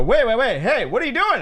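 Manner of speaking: retold incredulous challenge; indignant protest. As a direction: cut in, calling someone out. Retold group confronting the mocker.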